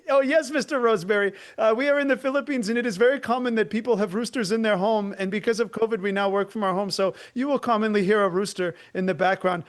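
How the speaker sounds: lightly voiced polite Filipino rep, brisk and laughing; chirpy, eager call-center agent, quick; a hint of a cheerful rep explaining; imitating the rep. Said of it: "he was like".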